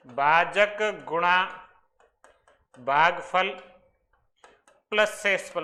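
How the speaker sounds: very slow, each term set apart by long pauses; slow dictation. Shown as a demonstration. Teacher dictating an important formula to students, very slowly. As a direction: drop one word at a time so students can write it. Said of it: "बहुत important formula ये".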